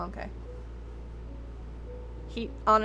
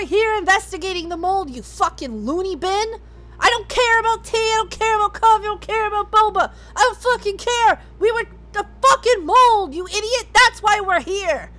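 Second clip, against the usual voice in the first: angry rant. Acted. Character ranting at halflings.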